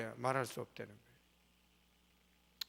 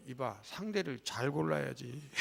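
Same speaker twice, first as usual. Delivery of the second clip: mock advice; 3 semitones lower than usual. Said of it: "그래서 내가 다 말해줬어요".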